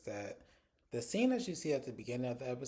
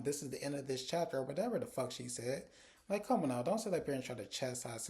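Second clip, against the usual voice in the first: heated rant; 5 semitones higher than usual. Real, not acted. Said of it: "let me calm down for a second".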